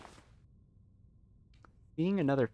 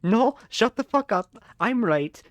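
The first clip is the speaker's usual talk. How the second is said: angry shout; 10 semitones higher, 8 dB louder than usual. Real, not acted. Angry outburst.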